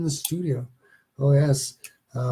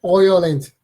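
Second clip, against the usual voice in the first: loud OY-land in Irish accent; attempted Irish accent; 3 semitones higher, 8 dB louder than usual. Shown as a demonstration. Host showing listeners the country's name, attempted Irish accent. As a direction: belt it out in a put-on Irish brogue. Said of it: "hard to spell with an accent".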